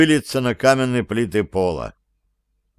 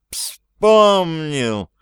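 eureka; 6 semitones higher than usual. A narrator's reading. Домовой вспомнил своё имя.

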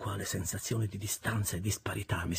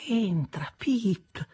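high, hushed murmur trailing into a whisper; 11 semitones higher, 4 dB louder, much slower than usual. Acted. Miss Havisham murmurs to Pip without raising her eyes, hushed. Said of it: "mormorò ancora la signorina Havisham".

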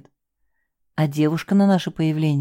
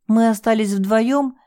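emotional confession; 4 semitones higher than usual. Acted. Girl's emotional confession continues.

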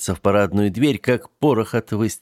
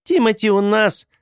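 insistent; 14 semitones higher, 4 dB louder than usual. Acted. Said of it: "настойчиво повторила Лора".

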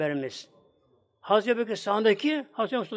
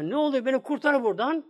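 higher, urgent imitated plea; retold cry for help; 5 semitones higher than usual. Wife in hell begs her husband, a retold cry for help. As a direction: call out for rescue without a full shout. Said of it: "Sana bağırdım".

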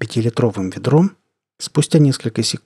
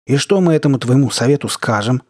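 haughty mockery; 3 semitones higher than usual. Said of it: "высокомерно и где-то немного с издёвкой".

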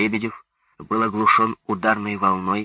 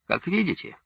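unruffled reply, lightly pitched up; unperturbed; 9 semitones higher than usual. A narrator's reading. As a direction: answer coolly, as if nothing bothers you. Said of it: "невозмутимо сказал Лебедев".

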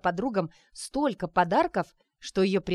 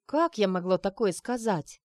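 притворный вздох. Acted. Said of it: "притворно вздохнула Арина".

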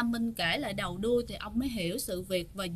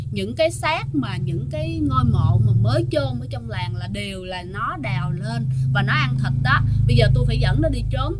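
rising panicked shout; 7 dB louder than usual. Acted. Father reveals son, panicked.

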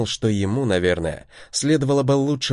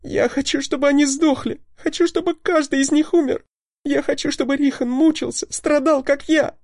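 sobbing scream. A narrator's reading. Lita screams into Dex's neck, sobbing. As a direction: wail for their deaths between sobs. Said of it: "кричала она ему в шею, всхлипывая".

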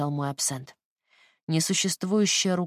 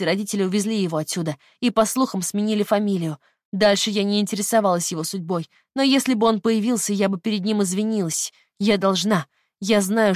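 remorseful; 3 semitones higher, 5 dB louder than usual. Acted. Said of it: "Заплакала она даже под полотенцем".

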